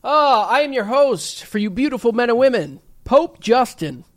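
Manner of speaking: grand show host introduction; announcer voice. Acted.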